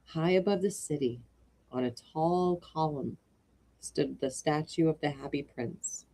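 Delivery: put-on children's story narration. A narrator's reading. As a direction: open the tale gently for children. Starts reading The Happy Prince.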